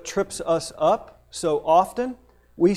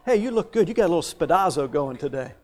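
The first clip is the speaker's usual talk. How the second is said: mock compliment; faster than usual. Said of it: "something we should say".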